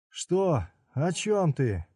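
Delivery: high startled ask; suddenly afraid; high alarmed question. Acted. Udo alarmed.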